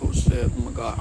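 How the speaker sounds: breathless, whispered panic; a scared bouncer whispering oh my God; panicked whisper. Retold or imitated. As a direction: hiss it out like you just got caught.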